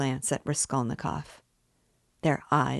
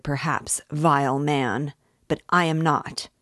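put-on louder, indignant young man; heated accusation; 3 dB louder than usual. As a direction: angrily call him a scoundrel. Lebeziatnikov's angry speech.

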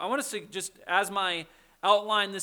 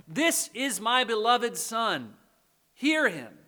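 slow, solemn proclamation, raised in pitch and volume; lightly acted voice from heaven; God the Father; 4 semitones higher, 5 dB louder, slower than usual. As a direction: proclaim it slowly from the cloud. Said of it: "It's the voice of God the Father".

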